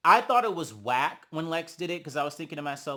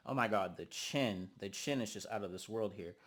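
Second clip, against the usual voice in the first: ordinary talk, nothing marked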